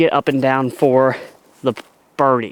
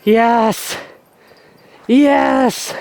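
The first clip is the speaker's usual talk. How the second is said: excited cheer; 7 semitones higher than usual. Real, not acted. Putt drops after misses.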